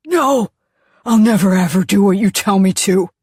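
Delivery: furious loud scream. Acted. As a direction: scream defiance at full force. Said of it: "he screams".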